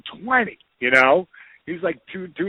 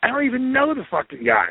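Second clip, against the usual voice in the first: mock protest; 9 semitones higher than usual. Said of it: "I go".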